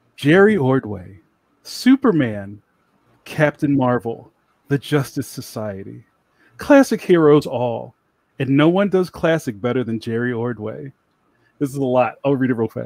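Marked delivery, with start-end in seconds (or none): 0.2-11.0 public radio interview host voice, reading style. Reading a book's back-cover blurb to introduce a guest, in an NPR voice. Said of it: "You ready for my NPR voice?".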